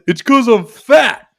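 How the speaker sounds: stretched, high mock whine; mock wail. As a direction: imitate a drunk friend wailing an excuse. Imitating drunk friend's blurted answer.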